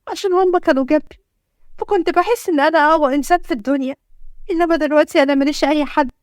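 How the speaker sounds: a touch of tears as she admits feeling alone; tearful confession. Acted. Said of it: "وقعت في الأرض من كتر عياطها". (بنبرة باكية شوية)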